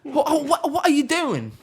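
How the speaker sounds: very high, loud squeal through laughter; laughing mock outrage. Laughing off British muggers demanding chain and shoes, high mock outrage. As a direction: crack up while pretending to fend them off.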